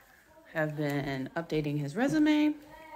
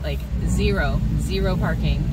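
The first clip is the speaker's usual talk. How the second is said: stressed; 7 dB louder than usual. Real, not acted. No parking, late for call.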